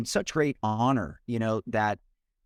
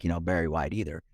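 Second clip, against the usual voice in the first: a deep-voiced singer's voice; 7 semitones lower than usual. Shown as a demonstration. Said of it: "I'm not all down like".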